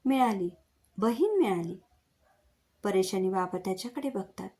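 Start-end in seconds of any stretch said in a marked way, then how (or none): 0.0-1.8 mildly raised, excited cry of discovery; half-shouted exclamation; sudden shout. Acted. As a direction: call it out suddenly, without a full shout. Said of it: "आणि अचानक ओरडतो".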